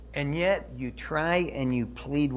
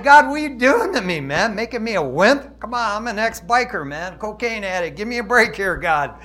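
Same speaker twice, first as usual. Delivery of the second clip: playful, exasperated griping, louder and higher; mock complaint to God; 4 semitones higher, 5 dB louder than usual. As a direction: whine at God like an ex-biker caught crying. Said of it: "It's like".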